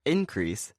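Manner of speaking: IN-crease as the noun; first-syllable stress. Shown as a demonstration. Teacher giving an example of a noun, first-syllable stress. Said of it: "stress on the first syllable".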